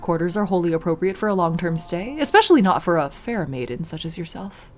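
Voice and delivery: a hint of a cold vampire hostess, unhurried; Magdalena the vampire. Vampire to her shaking captive, mild mocking menace. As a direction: toy with the prisoner, understated menace.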